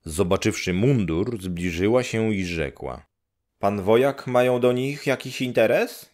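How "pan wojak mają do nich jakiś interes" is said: brisk, higher neighbour voice; a matter-of-fact old neighbour; higher village woman. Acted. Neighbour woman telling Grześ nobody's home, brisk and higher.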